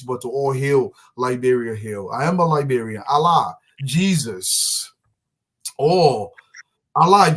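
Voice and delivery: lightly declaimed, steady poem reading; poem recital. Acted. Father reads his daughter's poem to the audience, lightly declaimed. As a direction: read the poem out with pride.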